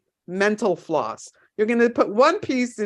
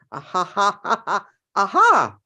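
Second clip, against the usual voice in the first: mock laugh to aha. Shown as a demonstration. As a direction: laugh it out, then land on the aha. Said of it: "ha ha to the aha moment".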